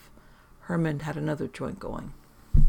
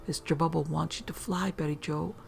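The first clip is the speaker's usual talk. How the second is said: Mister Bubble whisper; 6 dB quieter than usual. Acted. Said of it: "My best Mister Bubble voice, I whispered".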